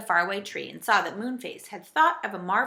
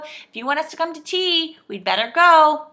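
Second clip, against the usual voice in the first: high, raised voice; calling out; 7 semitones higher, 10 dB louder than usual. A narrator's reading. Joe hurries the saucepan man to tea, calling out. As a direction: keep calling, urging them on. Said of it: "called Joe".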